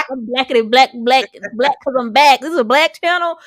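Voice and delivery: loud mocking commenter voice. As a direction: sneer it like a hater.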